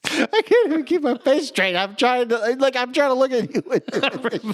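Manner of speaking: high, slow Irish leprechaun lilt, fighting laughter; squeaky Irish leprechaun, barely holding a straight face; leprechaun accent. Acted. Laughing while stuck in an Irish leprechaun accent. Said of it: "I sound like a goddamn leprechaun".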